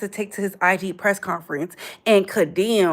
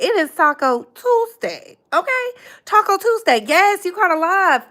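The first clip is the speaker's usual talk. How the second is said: excited hype; 8 semitones higher than usual. Real, not acted. Hyping Taco Tuesday to viewers.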